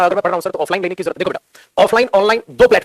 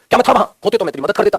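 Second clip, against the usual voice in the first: rhetorical self-question; faster than usual. Retold or imitated. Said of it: "बोलते हैं ना कई बार आप".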